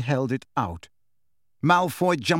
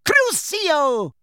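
curse cast; 12 semitones higher, 3 dB louder than usual. A narrator's reading. Bellatrix casts torture curse.

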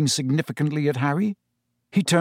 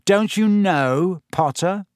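slow, higher, drawn-out taunt; insinuating, stretched question; breathed taunt; 5 semitones higher, slower than usual. Acted. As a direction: dangle a secret over a rival. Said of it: "breathed Malfoy, his pale eyes narrowed".

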